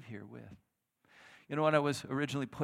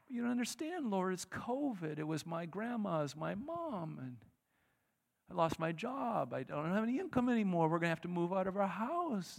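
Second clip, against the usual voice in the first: desperate plea; 6 semitones higher than usual. Acted. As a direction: pour out the losses to God. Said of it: "answering God".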